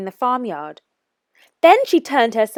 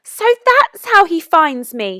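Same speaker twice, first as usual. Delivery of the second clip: higher, sudden realization; realizing cry; 8 semitones higher, 4 dB louder than usual. A narrator's reading. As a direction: gasp it out as it dawns on her. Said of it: "she cried".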